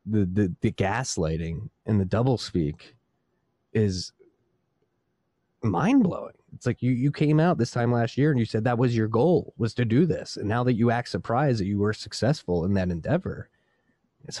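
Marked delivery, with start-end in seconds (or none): 5.6-7.9 exasperated. Real, not acted. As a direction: voice jumps much higher on mind-blowing. Ranting about Fed doublespeak.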